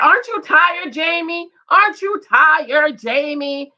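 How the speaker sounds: mock nagging wife. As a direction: imitate a wife pressing her husband. Acting out wife nagging husband.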